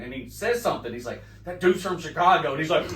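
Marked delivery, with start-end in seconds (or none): 1.4-2.5 loud. Retold or imitated. Wrestler points them out.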